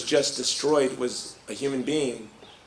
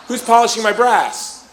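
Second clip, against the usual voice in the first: mock-bossy demand; 7 semitones higher, 4 dB louder than usual. Bossy soldier's demand, retold laughing.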